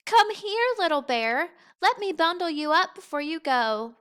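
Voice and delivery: gentle mother bear voice. A narrator's reading.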